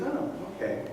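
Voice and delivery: high "Oh" as the idea hits the king; sudden realization. Retold or imitated. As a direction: let the king light up with the idea.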